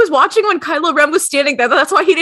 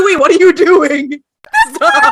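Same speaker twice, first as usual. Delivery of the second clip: mock shout; 4 semitones higher than usual. Han yelling at Chewie.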